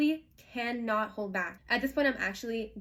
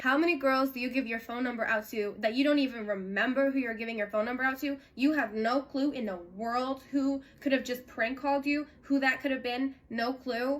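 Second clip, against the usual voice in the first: retold angry rant; 3 semitones higher than usual. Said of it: "me being like".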